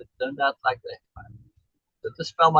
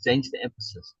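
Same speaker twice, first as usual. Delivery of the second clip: softer, lower echo of the phrase; quieter repeat; 4 semitones lower, 5 dB quieter than usual. Shown as a demonstration. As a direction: drop it down for the repeat.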